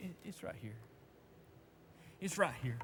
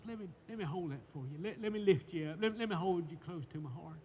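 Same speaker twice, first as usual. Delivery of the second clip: tender reassurance; 3 dB quieter than usual. Acted. Voicing God comforting the burdened.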